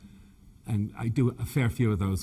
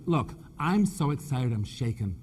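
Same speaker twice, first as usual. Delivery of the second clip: mock excited; 2 semitones higher than usual. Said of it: "And I said".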